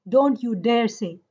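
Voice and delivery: "don't you dare say" slowed, each word set apart; measured, weighty "don't you dare say", stress on DARE; emphatic prohibition. Shown as a demonstration. Teacher translating the emphatic verb for the class, deliberate stress. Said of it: "say with so much emphasis".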